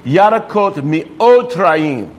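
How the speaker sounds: slow, careful Hebrew model line; slow model phrase. Shown as a demonstration. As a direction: lay out each word slowly for learners. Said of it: "so you say".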